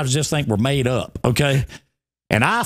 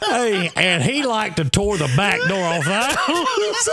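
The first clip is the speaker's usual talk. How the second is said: slow words through laughter; laughing while talking; 5 semitones higher, slower than usual. Real, not acted. Finishing the story to friends while still laughing. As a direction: push the words out between laughs.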